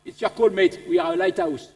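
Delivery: put-on understated French-accented punchline; laid-back French radio operator, unbothered. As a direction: answer casually in a French accent. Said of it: "The French".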